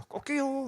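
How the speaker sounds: 높게 꺾어 올리는 가벼운 닭 울음소리 흉내; 수탉이 우는 소리를 살짝 흉내 내듯. Retold or imitated. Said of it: "하고 닭울음 들렸어요". (설교 중 닭 울음을 가볍게 흉내 내는 소리)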